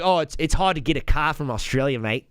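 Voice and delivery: imitated Aussie excuse; mock Australian accent. Australian explaining having no car, mock Australian accent. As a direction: make excuses as a put-on Aussie. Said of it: "four or five Australians. None of them".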